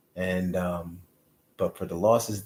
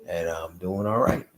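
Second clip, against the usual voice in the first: upbeat reply. Retold or imitated. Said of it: "He's like".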